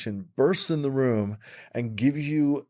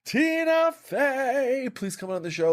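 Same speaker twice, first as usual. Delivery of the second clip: mock pleading prayer; 13 semitones higher, slower than usual.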